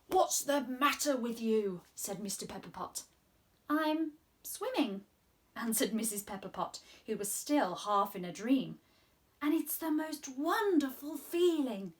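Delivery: gentle storybook reading voice; reading to children. Acted. Presenter reading a story aloud to the children. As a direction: read it like a storyteller to little ones.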